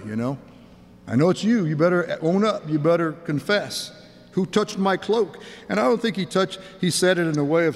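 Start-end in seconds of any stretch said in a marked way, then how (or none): 1.1-5.4 mild accusing. Acted. Jesus as if catching the culprit, mildly accusing. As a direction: press the culprit to confess, firmly. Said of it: "So you're in trouble".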